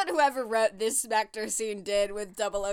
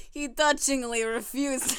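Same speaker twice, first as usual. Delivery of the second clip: badly done German accent, close to laughing; attempted German accent. Podcaster voices Stockman, botched German accent. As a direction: try a German villain and miss. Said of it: "I'll give him a German accent".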